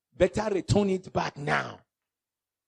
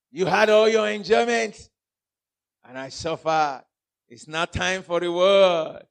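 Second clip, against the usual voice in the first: Lazarus replying; 4 dB louder, slower than usual. Acted. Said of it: "He said".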